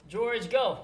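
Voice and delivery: high, loud urging cry; excited shout. Real, not acted. Gamer cheering George on, excited shout.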